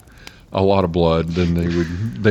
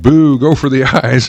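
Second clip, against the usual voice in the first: mock yell; 5 semitones higher, 8 dB louder than usual.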